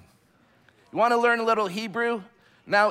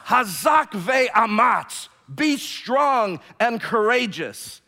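Hazak ve'amatz belted out, slow and louder; forceful Hebrew; 3 semitones higher, 4 dB louder, much slower than usual. Shown as a demonstration. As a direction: let Hazak ve'amatz rip like a battle cry. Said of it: "How about one more time? Go".

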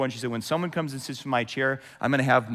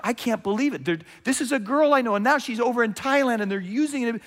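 upset disbelief; 7 semitones higher than usual. Acted. Righteous upset at trafficking.

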